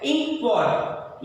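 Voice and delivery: इंक पॉट said slowly, each sound clear; teacher demo of इंक पॉट; slow careful ink pot. Shown as a demonstration. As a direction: spell out इंक पॉट syllable by syllable. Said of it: "इंक पॉट यहाँ पर लिखा गया है".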